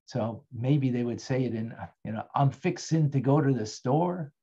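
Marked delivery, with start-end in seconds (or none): 2.3-4.3 lightly put-on Southern accent; a touch of down-south Southern speech. Teacher imitating how they would say it down south, light Southern accent. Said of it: "anybody here from, uh, the good old down south".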